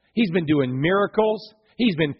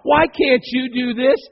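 high, loud exasperated outburst; exasperated parent; 7 semitones higher, 9 dB louder, slower than usual. Acted. Parent scolding kids for behaving better elsewhere, exasperated. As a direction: vent at the kids, pitched up and loud. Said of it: "And you thought".

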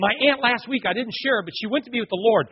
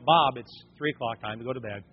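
hushed, much softer bedtime nudge; a hint of a sleepy mom, much softer; mom's soft wake-up call; 8 semitones lower, 5 dB quieter than usual. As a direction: gently rouse a dozing husband. Mom waking dad at night.

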